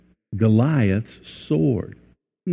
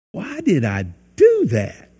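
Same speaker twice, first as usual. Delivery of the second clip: higher exasperated self-question; 7 semitones higher than usual. Retold or imitated. Preacher acts out regret.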